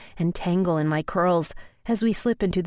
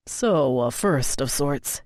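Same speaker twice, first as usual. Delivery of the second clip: lower, earnest male voice; lover's male voice; 4 semitones lower, slower than usual. A narrator's reading. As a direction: speak low and sincerely to her. Narrator voices Colton.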